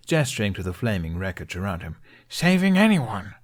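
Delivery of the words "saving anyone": high, loud disbelief; incredulous. A narrator's reading. Hiccup gesturing at flames, incredulous. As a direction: throw the question back at them. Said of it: "Hiccup flailed his arms as he stammered".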